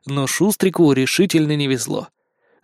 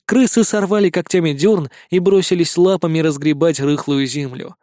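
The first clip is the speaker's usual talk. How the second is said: usual speaking voice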